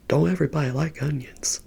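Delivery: quick, lightly imitated cartoon sidekick; a hint of a chatty cartoon animal, rattled off; Donkey. Retelling a friend's cartoon impression to viewers, lightly imitated and quick. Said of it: "Donkey from Shrek. He was like".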